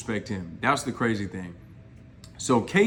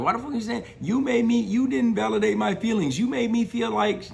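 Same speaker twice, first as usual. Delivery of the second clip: mock yell; 9 semitones higher than usual. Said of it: "She's yelling down at him saying".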